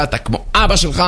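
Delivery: mock scolding, not shouted; mildly annoyed mother. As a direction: lightly mimic a mother telling off her child. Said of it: "מתעצבנת על הילד שלה".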